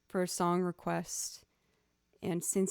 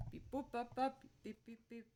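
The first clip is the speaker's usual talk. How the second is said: soft beep boop; 4 semitones higher, 10 dB quieter than usual. Shown as a demonstration. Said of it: "pizzicato going like boop".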